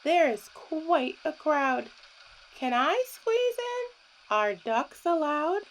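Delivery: lightly voiced little duck. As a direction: plead like a squeezed-in duck. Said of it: "said Duck".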